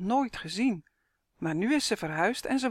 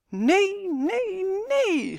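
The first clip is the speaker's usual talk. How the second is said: put-on child shrieking; 12 semitones higher, much slower than usual. A narrator's reading. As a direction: shriek it like a panicking little boy. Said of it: "gilt Henrik".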